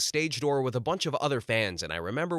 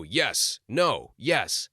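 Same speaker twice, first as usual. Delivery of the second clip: lightly imitated curt rock-star answers; a hint of an imperious star's one-word replies; 3 dB louder, much slower than usual. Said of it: "Mick Jagger talked like this".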